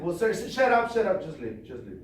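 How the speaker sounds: exasperated rescuer snapping shut up, high, then fading; mock exasperated rescuer. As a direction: snap at the stubborn man to leave. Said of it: "That's the way that he said".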